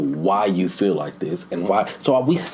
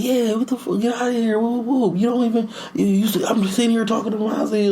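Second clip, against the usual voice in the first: put-on high, indignant kid voice; mock child's rant, pitched way up; imitated arguing boy; 14 semitones higher than usual. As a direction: mimic a schoolboy squabbling.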